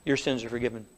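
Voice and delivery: quiet, gentle pastoral assurance; softly reassuring demonstration; soft mock assurance. Shown as a demonstration. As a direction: say it low and soothing, as in an office. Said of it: "I say".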